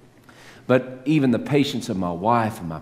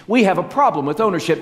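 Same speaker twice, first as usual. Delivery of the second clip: higher, louder and fast, hammer the point home; emphatic repeat; 8 semitones higher, 5 dB louder, faster than usual. Shown as a demonstration. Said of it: "repeated for emphasis".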